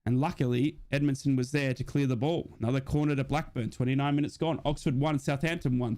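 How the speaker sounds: steady fan commentary call of the match; play-by-play commentary. Acted. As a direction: call the action like a stream commentator.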